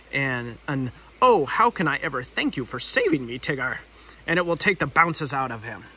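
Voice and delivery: lightly voiced fussy Rabbit; bossy Rabbit voice. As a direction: play Rabbit calling everyone to order.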